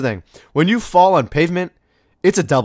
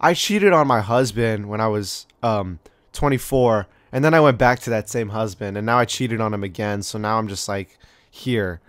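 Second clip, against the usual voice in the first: lower, slightly halting put-on confession; casual confession; 4 semitones lower than usual. Overheard diner admitting cheating on a husband, casually confessional. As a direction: lightly voice a diner's offhand confession. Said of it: "you hear someone".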